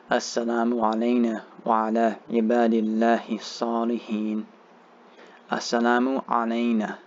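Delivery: measured, even-toned recitation with long vowels; Arabic prayer recitation. Shown as a demonstration. Teacher modelling the tashahhud for learners, measured recitation. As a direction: recite phrase by phrase for learners to follow.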